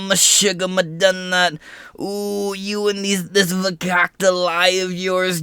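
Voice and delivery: high, hammed-up Yiddish accent voice; exaggerated Yiddish accent, mock outrage. Mocking Jewish speaker, higher voice.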